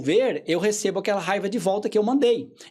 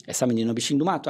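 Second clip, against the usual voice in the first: quoted mother; 7 semitones lower, much faster than usual. Retold or imitated. Repeating the mother's remark.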